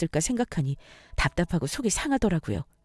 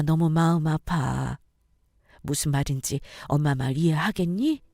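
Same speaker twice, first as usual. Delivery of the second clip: warm, motherly; 2 semitones lower than usual. Acted. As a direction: gently give her permission to choose. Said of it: "어머니의 따뜻한 말을 듣고".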